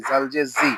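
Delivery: জি with a short i; no stretch. Shown as a demonstration. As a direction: cut the vowel of জি short. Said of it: "তখন টান হবে না".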